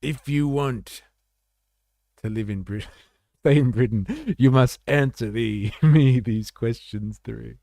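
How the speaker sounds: half-hearted stern keeper voice; lightly voiced gatekeeper. Host plays a mock keeper quizzing would-be migrants, lightly voiced, laughing.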